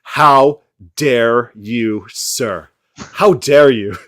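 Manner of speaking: slow, drawn-out mock tearful outrage; mock Greta Thunberg. Mocking the climate activist's speech, mock outrage. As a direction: lightly imitate an indignant activist. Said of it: "like that Greta Thunberg lady".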